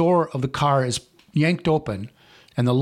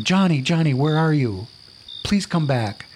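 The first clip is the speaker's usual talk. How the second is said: calling out; 3 semitones higher than usual. Acted. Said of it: "She calls out again".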